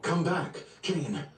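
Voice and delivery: high, rising desperate calls; urgent calling. Acted. Calling a diver in danger.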